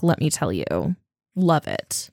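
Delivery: ordinary delivery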